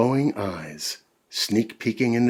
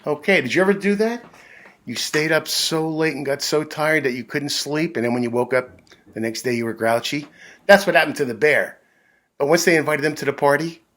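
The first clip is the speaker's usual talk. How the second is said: excited chat; 5 semitones higher, 4 dB louder, faster than usual. Real, not acted. Host chats to kids fast.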